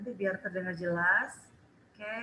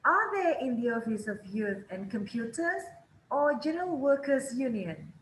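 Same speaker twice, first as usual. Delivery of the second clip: first option up, second down; teacher repeating the model; rise then fall. Shown as a demonstration. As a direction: rise on "Youth and Computers", fall on "Workers Union". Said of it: "Pilihan pertama selalu naik".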